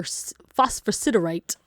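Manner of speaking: slow, careful "phosphorsiderite"; careful pronunciation. Real, not acted. Tarot reader names her dropped crystal, "phosphorsiderite" said slowly and carefully. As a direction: say "phosphorsiderite" slowly, working through each syllable. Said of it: "I actually know how to pronounce it".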